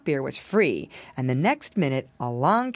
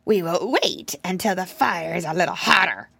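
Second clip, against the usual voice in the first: patient fox. Acted. Fox holding the piglet.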